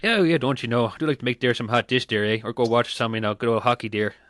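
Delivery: put-on light Canadian accent with eh; hint of a folksy Canadian accent. Granny streamer joking about hockey in a light Canadian accent. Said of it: "That's my favorite accent".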